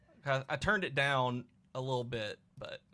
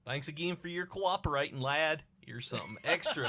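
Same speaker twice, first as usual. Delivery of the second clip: put-on Cockney sliding toward another accent; wobbly Cockney accent; 3 semitones higher than usual. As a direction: thank the lad in shaky Cockney. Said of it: "Changed him from Cockney to".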